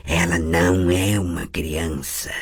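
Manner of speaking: mock her like something not human; the possessing voice jeering at Tris; mocking inhuman voice. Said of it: "repetiu a voz".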